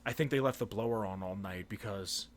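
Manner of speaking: officer's low murmur; quiet mumbled reply. Retold or imitated. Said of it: "he's like".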